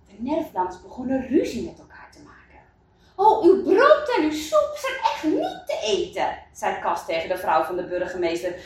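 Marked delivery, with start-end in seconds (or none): 3.1-6.4 high-pitched, indignant acted outburst; quarrelsome complaint. Kas quarrelling with the mayor's wife, indignant. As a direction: throw the complaint at her in a squabble. Villagers start quarrelling over the food.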